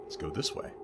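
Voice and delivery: slow hushed whisper; breathless sneaking whisper. Real, not acted. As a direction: creep past and whisper it. Sneaking through a busted door.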